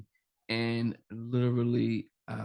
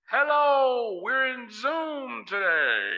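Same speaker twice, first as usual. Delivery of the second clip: very high, loud chipmunk greeting; squeaky high hello, slowly; helium voice; 4 dB louder, slower than usual. Shown as a demonstration. Demoing effect, greeting Zoom.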